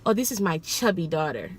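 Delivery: lightly voiced Caribbean accent; a mild try at a Caribbean woman's accent; attempted Caribbean accent. Caribbean mother showing a picture of her daughter, lightly attempted Caribbean accent. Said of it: "I'm, I'm gonna tr-, attempt to do this accent".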